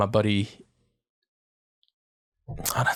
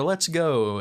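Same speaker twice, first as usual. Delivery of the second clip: dismissive inflection; 5 semitones higher than usual. Shown as a demonstration. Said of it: "it's like inflection".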